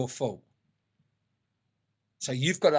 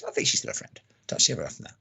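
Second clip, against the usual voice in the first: whispered aside; 5 semitones lower, faster than usual. Real, not acted. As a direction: drop to a confiding whisper. Whispered aside about her friend.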